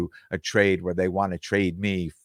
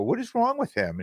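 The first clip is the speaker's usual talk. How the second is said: much higher, astonished; can't believe what just happened; high, astonished aside to the other guy; baffled question. Retold or imitated.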